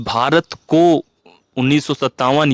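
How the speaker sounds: slow, halting word-by-word reading of भारत को उन्नीस सौ सत्तावन. Shown as a demonstration. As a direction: read भारत को, pause, then उन्नीस सौ सत्तावन slowly, one word at a time. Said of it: "ये ऐसे ऐसे नहीं पढ़ोगे ना".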